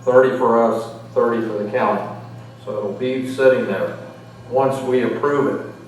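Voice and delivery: muffled behind a mask; through a face mask. Real, not acted. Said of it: "I hope you can hear me through this mask".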